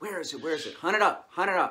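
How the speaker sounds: eager, hyped-up, really excited, loud and drawn out. Showing how to walk a dog up to an object and urge it: really excited voice. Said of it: "In a really excited voice".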